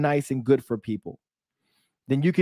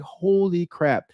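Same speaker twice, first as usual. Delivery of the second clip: slow, slightly higher awed exclamation; retold amazement; 4 semitones higher, much slower than usual. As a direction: draw it out in amazed disbelief. Amazed at repeated grant emails.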